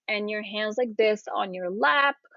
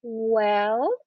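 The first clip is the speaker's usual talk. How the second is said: thinking "well". Shown as a demonstration. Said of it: "So you just wanna say".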